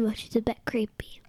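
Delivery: fast whispered aside; whispering. Real, not acted. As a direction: whisper it quickly. Whispered comment.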